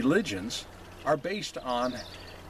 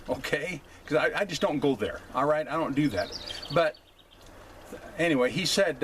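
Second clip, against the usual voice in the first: ordinary talk, nothing marked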